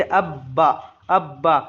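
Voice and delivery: अब बा with a firm doubled ब; teacher demonstrating a hard geminate in अब बा; hardened doubled sound. Shown as a demonstration. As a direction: press and hold the ब in अब बा, then release. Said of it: "आवाज़ में सख्ती हो जाती है".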